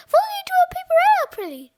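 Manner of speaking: fast, high, shouted order; frantic, high-pitched command; urgent cry. A narrator's reading. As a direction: yell it in a desperate rush. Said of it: "cried Fluffy".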